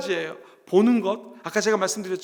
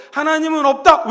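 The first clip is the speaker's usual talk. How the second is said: raised, loud chanted statement; imitated shouting; 6 semitones higher, 8 dB louder than usual. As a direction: call it out like a drilled class. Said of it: "외치게 만드는 거예요". (크게 따라 외치는 구호 흉내)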